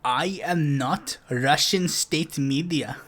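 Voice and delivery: slow, deliberate mock statement; mock slow denial. Quoting Galloway's denial tweet, slow and mocking. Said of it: "when he said".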